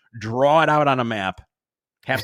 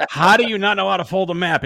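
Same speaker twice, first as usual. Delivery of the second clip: dad losing it; 5 semitones higher, 5 dB louder than usual. Retold or imitated. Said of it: "my dad would lose his shit".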